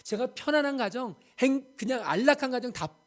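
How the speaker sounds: missionary protesting to the Lord, pleading cry. Retold or imitated. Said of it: "라고 외치고 싶었는데".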